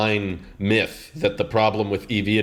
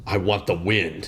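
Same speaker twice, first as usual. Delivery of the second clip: slow mock quote; 4 semitones lower, 3 dB quieter, slower than usual. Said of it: "It just sounds funny".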